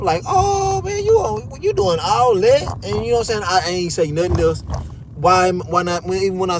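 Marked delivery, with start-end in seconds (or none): 0.3-2.8 much higher, stretched disbelief; incredulous mock. To the guard, mocking her overreaction with high disbelief. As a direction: act amazed at her overreacting.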